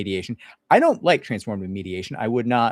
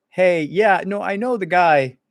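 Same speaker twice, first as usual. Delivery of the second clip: placating; 9 semitones higher, 7 dB louder, slower than usual. Retold or imitated. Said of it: "have to be like".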